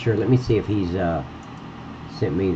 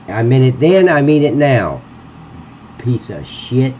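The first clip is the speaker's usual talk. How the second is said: angry; 3 semitones higher, 4 dB louder than usual. Real, not acted. Raging at Gary on stream.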